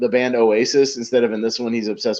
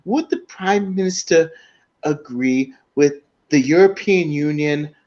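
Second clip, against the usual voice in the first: mock MP question; 6 semitones higher than usual. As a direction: lightly send up an eager MP. Retelling Will Ferrell's MP questions.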